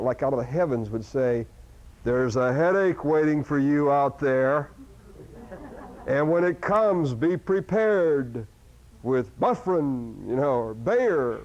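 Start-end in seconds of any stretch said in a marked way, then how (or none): 2.0-11.4 slow, solemn heavenly announcer; a slow, hushed saintly ad voice. Retold or imitated. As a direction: intone it like a voice from the heavens. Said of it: "sort of saintly voice".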